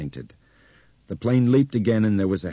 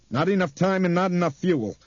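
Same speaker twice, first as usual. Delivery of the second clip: terse pilot; 11 semitones higher, 4 dB louder than usual. A narrator's reading.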